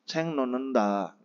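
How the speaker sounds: learners' repeat, ceng non nenda; model repetition. Shown as a demonstration. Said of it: "Bacim T ketemu dengan N dibaca N".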